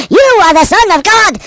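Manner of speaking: high, drawn-out demon shout; sustained, high declaring shout. A narrator's reading. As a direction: cry it out slowly at a high pitch.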